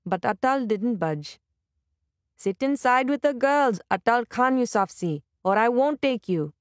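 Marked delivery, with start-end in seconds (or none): 2.4-6.5 more forceful. Acted. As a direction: push harder, last chance. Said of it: "with more force this time".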